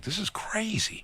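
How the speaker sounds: slow, high awed whisper; hushed "This is crazy". Retold or imitated. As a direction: breathe it out in disbelief. Awed aside while circling block.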